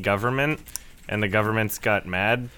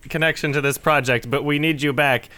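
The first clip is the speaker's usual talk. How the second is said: higher, worked-up rant, easing toward the end; comic exasperation, pitched up; exasperated mock officials; 6 semitones higher, 5 dB louder than usual. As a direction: act out baffled bosses begging him back. Retold officials exasperatedly rehiring the hero.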